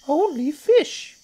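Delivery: high, loud, slow little croc voice; not-so-big crocodile. Acted. Not-so-big crocodile stating its diet, slow high voice. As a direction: draw it out in a tiny high voice.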